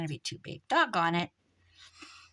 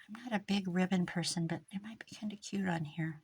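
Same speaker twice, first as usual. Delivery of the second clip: whisper; 6 dB quieter than usual. Real, not acted. Crafting, whispering while working.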